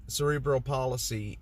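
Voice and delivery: "palsy" with an extra vowel, PAH-luh-see; mispronounced palsy. Real, not acted. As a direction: say "palsy" as three syllables, like "policy". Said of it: "did I say it wrong".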